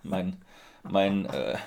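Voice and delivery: stumbling over mein; stuttering. Real, not acted. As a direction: repeat mein, stammering. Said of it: "meinen Stottern erklären".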